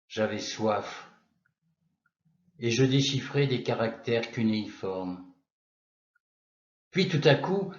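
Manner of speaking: measured poetry reading with long pauses between lines; poem recitation. Acted. Narrator recalling his adolescence in Moscow, poem recitation. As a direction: recite it as verse, line by line, letting each image settle.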